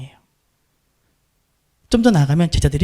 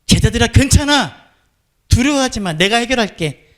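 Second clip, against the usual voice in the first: reassuring Jesus; 3 semitones higher than usual. Pretend. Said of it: "안심시켜야죠".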